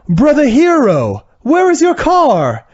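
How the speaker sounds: The speaker's fake accent. The speaker asking his brother about the car, in a high, slow fake English accent. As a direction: ham up a bad English accent, rising way up. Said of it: "he still has his fake accent".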